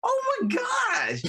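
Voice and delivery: high, slow, delighted exclaim; thrilled to hear she's local, draw it out high; excited oh my gosh. Real, not acted. Delighted to meet fellow Minnesotan.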